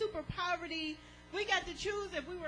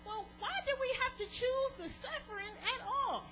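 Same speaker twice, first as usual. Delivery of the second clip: imagined congregant; 5 semitones higher than usual. Retold or imitated. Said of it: "some of you all are sitting there thinking".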